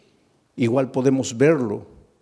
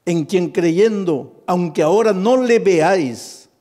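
1 loud slow reading; 6 semitones higher, 8 dB louder, slower than usual. Acted. Preacher reading scripture aloud.

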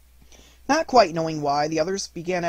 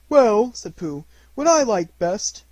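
much higher, louder bear voice; little bear voice; 7 semitones higher, 8 dB louder, slower than usual. Acted. Pooh hurrying after Christopher Robin, high and eager. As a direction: sound small and eager as Pooh.

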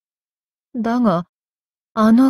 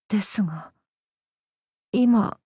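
whisper; 6 dB quieter than usual. Acted. Inner voice interjects.

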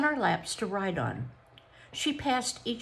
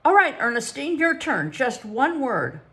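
excited; 6 semitones higher, 7 dB louder than usual. A narrator's reading. Psychologist calls next child.

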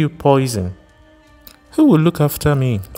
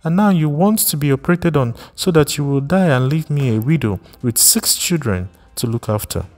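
shrill accusation; 7 semitones higher than usual. Acted. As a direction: hurl the name at him, rising in outrage. Repeated accusation climbs higher.

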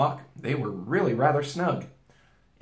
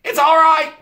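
high, much louder joyful call; shouting; 12 dB louder than usual. A narrator's reading. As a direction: call it out across the hillside. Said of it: "he shouted".

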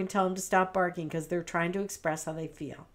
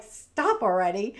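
louder, put-on voice of an annoyed dog; 5 dB louder than usual. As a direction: play the dog fed up with the storm.

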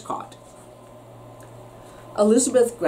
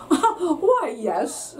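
proud laughing yes; 6 semitones higher than usual. A narrator's reading. Proud dragon answers.

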